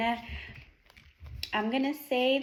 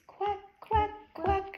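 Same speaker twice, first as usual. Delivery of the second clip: duck quack; 9 semitones higher, slower than usual. Retold or imitated. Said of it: "Duck says".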